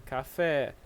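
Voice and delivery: "Café" with weight on the final é; stress on last syllable. Shown as a demonstration. Teacher confirming "this way", "Café" stressed on the final syllable. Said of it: "This way".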